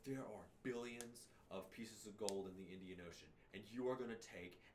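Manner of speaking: imitating a hyped-up announcer, building in intensity; mock-intense announcer hype; excited announcer. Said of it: "was so freaking excited".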